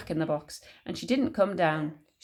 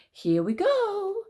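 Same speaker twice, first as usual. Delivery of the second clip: high, drawn-out call; crying out; 11 semitones higher, much slower than usual. A narrator's reading. George about to give Grandma the dose, crying out high. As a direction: sing it out slowly, high. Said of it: "George cried out".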